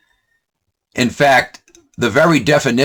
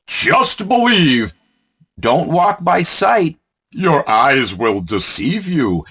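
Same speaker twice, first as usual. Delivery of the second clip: mock preacher; 4 semitones higher, slower than usual. Mocking preacher's exhortation.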